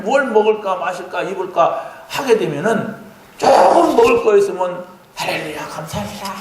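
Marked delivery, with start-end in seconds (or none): 5.1-6.3 mock grateful prayer. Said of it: "막 이렇게 하고".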